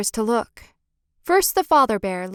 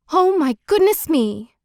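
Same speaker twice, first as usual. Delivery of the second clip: put-on higher and louder, a little girl's alarmed cry; storybook girl startled awake, louder; 6 semitones higher, 4 dB louder than usual. A narrator's reading. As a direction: gasp it out as she wakes to bears. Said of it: "cried Goldilocks".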